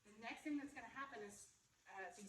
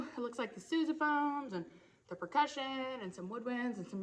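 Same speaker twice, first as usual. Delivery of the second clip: loud, raised explanation; talking over music; 14 dB louder than usual. Real, not acted. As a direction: project over the band.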